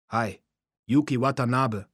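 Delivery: lightly voiced gruff phone greeting; a touch of rumbling gruffness; growling voice. A narrator's reading. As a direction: answer the phone with a hint of a growl. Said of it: "sagte eine grollende Stimme".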